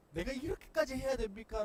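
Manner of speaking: high, loud cry to heaven; loud anguished outcry. Pretend. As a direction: shout the question up at God. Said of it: "외치려고 하는".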